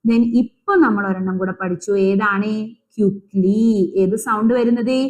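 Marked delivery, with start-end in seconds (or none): 3.0-3.6 ക്യുക്ലി with a drawn-out "ee" ending; final Y as "ee". Shown as a demonstration. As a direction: stretch the last ee of ക്യുക്ലി. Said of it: "ഈ sound ആണ്". (ക്യുക്ലി അവസാനം "ഈ" ശബ്ദം നീട്ടി)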